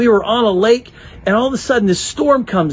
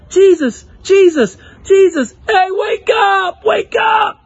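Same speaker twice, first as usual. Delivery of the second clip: higher, louder frantic calls; panicked shouting; 7 semitones higher, 3 dB louder than usual. Retold or imitated. Disciples wake Jesus in the storm, frantic yelling. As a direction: yell to wake him in a panic. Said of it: "they were shouting".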